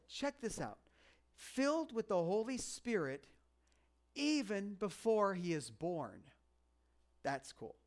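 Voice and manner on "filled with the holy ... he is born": scripture reading. Acted. Reads scripture aloud.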